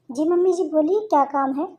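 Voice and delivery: put-on high, innocent young bride voice; naive daughter-in-law. Bride answers. (ऊँची, भोली बहू की आवाज़)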